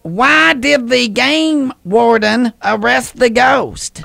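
slow riddle setup; telling a dad joke. Acted. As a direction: ask the riddle slowly.

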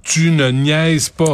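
slow, deliberate "Tu ne niaises pas", every word separated; stretched, insistent NIAISES; emphatic. Shown as a demonstration. Spells it out for government machine.

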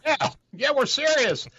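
high, loud mock insistence; mock British reply. British soldiers insisting on tea time, high mock voice. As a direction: pipe up like a prim Brit holding his tea. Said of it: "They say".

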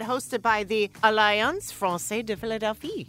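put-on French accent on the French name. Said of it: "compliment on my French accent".

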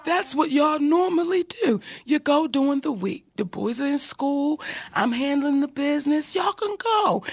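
softly reasoning husband; gentle, even explaining that lifts at the end; calm. Retold or imitated. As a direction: imitate someone patiently talking a partner down. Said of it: "this is just how calm he's talking to me".

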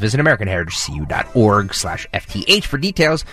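rapid sponsor read with fine print; fast legal disclaimer. Acted.

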